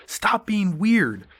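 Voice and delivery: high, loud, drawn-out shout; mock yell. Guy yelling at Donald Glover in jail, retold as a mock yell. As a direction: yell it out slowly like a scolding. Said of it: "looks at him and just yells".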